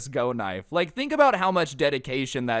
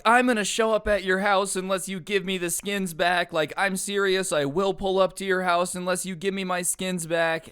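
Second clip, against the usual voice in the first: mock threat; 5 semitones higher than usual. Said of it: "he was threatening them".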